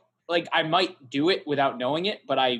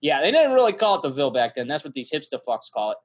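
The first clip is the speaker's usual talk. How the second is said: put-on old-time Boston local; put-on Boston townie with dropped r's; mock Boston accent. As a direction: set him straight in a Boston accent. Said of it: "Why are you fucking talking like me".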